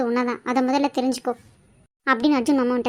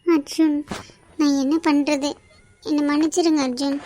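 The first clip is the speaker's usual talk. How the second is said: tearful, halting apology. Acted. Young woman alone, apologising to Arjun for betraying him, tearfully. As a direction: plead for forgiveness through tears. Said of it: "ஏன் இப்படி அழுதுட்டு இருக்க?".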